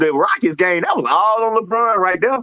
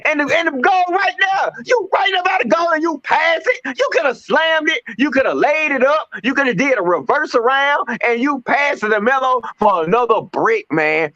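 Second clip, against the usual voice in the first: exasperated rant; 5 semitones higher than usual. Retold or imitated. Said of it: "'Cause he's sitting there trying to".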